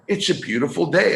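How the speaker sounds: a hint of a breezy mind-voice chirping along; mild mock cheerful inner voice. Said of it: "And the chatter said".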